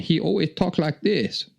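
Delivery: high mock Asian accent like Short Round; hammed-up Asian accent in a high voice; Roger's Asian accent. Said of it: "like Short Round from".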